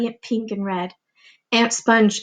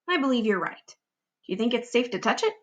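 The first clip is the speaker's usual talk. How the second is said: cautious aunt; 5 dB quieter than usual. Acted. Cautious aunts.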